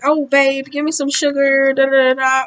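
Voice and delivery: coaxing a kiss in a teasing high voice; mock flirty lover. Voicing masculine partner flirting.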